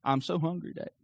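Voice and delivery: lightly voiced whiny four-year-old; a hint of a kid's whine; whiny child. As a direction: imitate a small boy pestering his dad. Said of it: "because the whiny voice".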